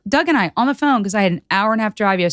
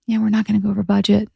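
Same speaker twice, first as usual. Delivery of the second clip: mild mock-demure delivery; faster than usual. Shown as a demonstration. Showing husband a less negative way to say it, demure. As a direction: tone the intensity down, demurely. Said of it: "More demure?".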